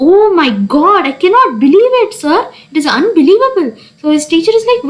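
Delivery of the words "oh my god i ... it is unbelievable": higher, swooping disbelief; hammed-up amazement; mock deliberate shouting. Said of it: "he was shouting deliberately".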